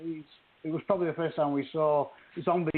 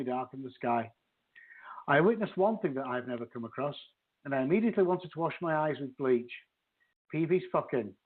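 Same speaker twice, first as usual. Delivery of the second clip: dry, steady audiobook narration; story reading; 2 semitones lower than usual. Acted. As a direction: read the excerpt aloud for listeners. Reads excerpt from the book.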